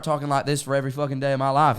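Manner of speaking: British speaker's put-on Southern accent. Shown as a demonstration. Briton claiming they could switch accents, Southern US accent. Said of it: "all of a sudden I'm Southern".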